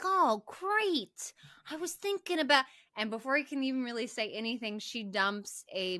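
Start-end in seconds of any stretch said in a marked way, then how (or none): 0.0-2.7 higher sarcastic doll voice; mock Chucky voice. A hint of Chucky, higher, mocking his own cage. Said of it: "It's like".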